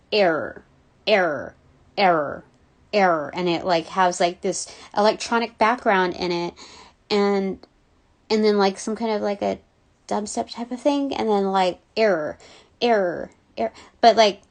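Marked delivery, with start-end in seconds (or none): 0.1-3.3 low falling "error", repeated with gaps; imitating song vocal. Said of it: "but they go". 12.0-13.7 imitating song vocal. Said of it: "kind of like dubstep".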